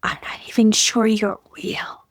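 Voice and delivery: hushed whisper; whispered to the critic. Shown as a demonstration. Host demonstrating what to tell the inner critic, whispered. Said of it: "and just say for a minute".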